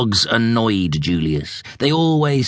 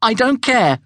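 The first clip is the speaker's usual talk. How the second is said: put-on high, insistent young zebra voice; a stubborn kid digging in; higher-pitched stubborn youngster; young zebra Julius; 11 semitones higher than usual. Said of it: "insisted Julius".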